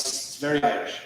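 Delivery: breathy whisper of "very Irish", no voice; hushed "It's very Irish." turned away from the mic; whispered aside. Real, not acted. Turned away showing the lights.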